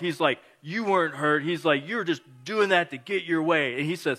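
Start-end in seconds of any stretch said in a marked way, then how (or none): 0.6-1.4 loud retold telling-off; mock scolding. Acts out a scolding of fake crier. 1.9-3.8 loud, higher retold telling-off; mock scolding. Acts out a scolding of fake crier.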